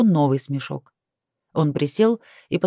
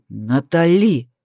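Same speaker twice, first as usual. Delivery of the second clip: threatening growl; 2 semitones lower, 4 dB louder, much slower than usual. A narrator's reading. Kai warning Natalie, slow menacing growl. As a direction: growl "Натали" as a threat, dragged out. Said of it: "прорычал он угрожающе".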